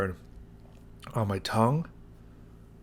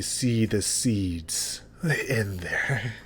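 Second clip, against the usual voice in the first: whisper; much slower than usual. Real, not acted. Whispered slow look at sauce.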